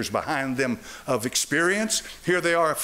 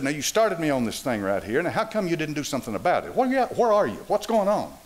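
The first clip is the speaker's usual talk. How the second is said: bold talk to God. Retold or imitated. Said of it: "talk to God like you'd talk to somebody in the room".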